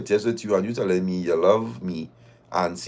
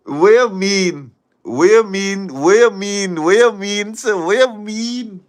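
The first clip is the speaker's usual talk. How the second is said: louder, higher, slow and drawn-out repeated question; incredulous outburst; 9 semitones higher, 6 dB louder than usual. Real, not acted. Reacting to the fella's cooking, loud drawn-out disbelief. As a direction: demand it over and over in disbelief.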